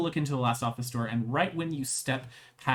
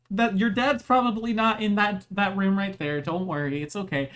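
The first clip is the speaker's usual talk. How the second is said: soothing guard; 7 semitones higher, 4 dB louder than usual. Acted. Guard soothing crying kid.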